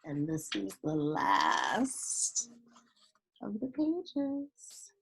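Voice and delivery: steady storybook reading voice; story narration. A narrator's reading. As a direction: read it like a children's picture book. Reads a picture book aloud.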